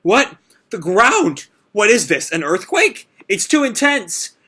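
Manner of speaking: high, panicky questions; Happy scared by the rumbling ground; freaking out. Retold or imitated. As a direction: babble in alarm at the shaking. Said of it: "Happy is, like, freaking out".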